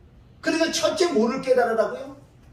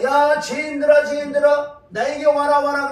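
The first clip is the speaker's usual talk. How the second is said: a louder, slowed summons; voicing Jesus calling; 3 semitones higher, 4 dB louder than usual. Preacher voicing Jesus calling sinners to him, louder. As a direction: beckon the sinners warmly but loudly. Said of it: "예수님 지금 부르는 거예요".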